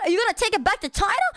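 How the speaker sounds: high, fast incredulous driver; imitating a taxi driver laughing at her; mocking taxi driver. Mimicking driver.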